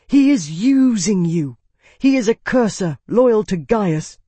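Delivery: high-pitched, venomous urging; hissed accusation. A narrator's reading. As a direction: urge it with agitated spite. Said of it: "Calyx hissed".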